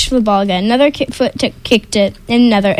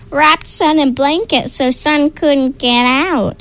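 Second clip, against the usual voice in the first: troll voice; 4 semitones higher, slower than usual. Acted. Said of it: "shouted another".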